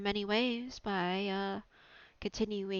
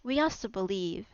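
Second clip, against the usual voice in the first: speaking through hiccups; 3 dB louder than usual. Real, not acted. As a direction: talk with the hiccups. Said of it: "I got the hiccups".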